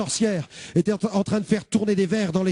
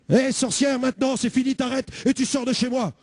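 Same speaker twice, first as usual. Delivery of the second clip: shouting like the pastor; 3 semitones higher than usual. Retold or imitated. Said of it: "je vais crier comme le pasteur".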